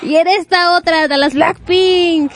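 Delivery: lucha libre announcer. Pretend. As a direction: call out the corner like a wrestling bout. Introducing the other corner.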